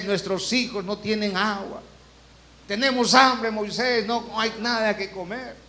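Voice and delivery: whiny complaint. Retold or imitated. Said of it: "Israel era así".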